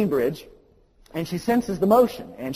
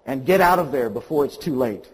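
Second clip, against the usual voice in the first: all caps; 5 dB louder than usual. Retold or imitated. Pastor's letter demanding repentance, read loud. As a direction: shout the warning in capitals. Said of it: "In all caps it says".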